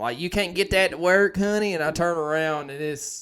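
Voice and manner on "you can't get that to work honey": put-on high, very thick Southern Tennessee accent. Retelling a stranger's question, in the strongest Tennessee accent. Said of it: "in the most Tennessee accent".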